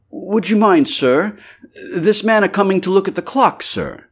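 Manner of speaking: high, eager innkeeper's wife; landlady voice. A narrator's reading. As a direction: pitch her up as the fussing landlady.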